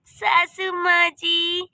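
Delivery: slow, drawn-out call. Acted. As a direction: stretch the name out to summon her. Daughter-in-law calls out to mother-in-law.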